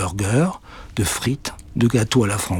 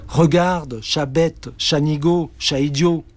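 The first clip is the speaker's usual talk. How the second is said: mocking scolding; 5 semitones higher, slower than usual. Witch scolds cat.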